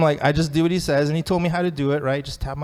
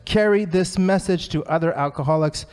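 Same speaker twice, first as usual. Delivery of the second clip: lightly raised, emphatic read; mock yell; 4 semitones higher than usual. Reading Bill's line to the meeting as a mild mock yell. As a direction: proclaim it like Bill shouting. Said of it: "Bill is yelling it".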